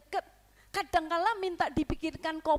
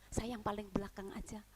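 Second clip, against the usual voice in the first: softer whispered excuse; sly whisper; 5 semitones lower, 8 dB quieter than usual. Acted. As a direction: mutter it sneakily. Stingy giver whispering excuse. (bisikan mengelak)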